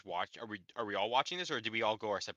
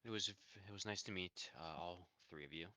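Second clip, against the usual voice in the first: sad; 3 semitones lower than usual. Acted. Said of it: "that was a very bad voice".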